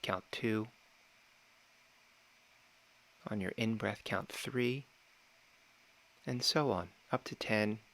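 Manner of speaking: calm, measured meditation guide with long pauses; unhurried meditation instruction, phrase by phrase; guided meditation. Real, not acted. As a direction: gently talk them through it, pausing between phrases.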